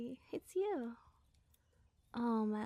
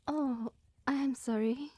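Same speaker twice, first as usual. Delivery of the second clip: louder, drawn-out startled sorry; suddenly remembering the guest; sudden apology; 6 dB louder, slower than usual. Acted.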